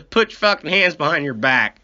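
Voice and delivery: mock cop barking the order to cuff him; cop command. Cop tells the Missouri man to cuff up, mock command. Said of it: "he goes".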